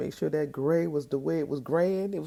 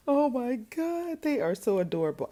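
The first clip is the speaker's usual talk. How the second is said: gushing mock voice; 9 semitones higher than usual. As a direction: coo like a fake doting dad. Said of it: "He was like".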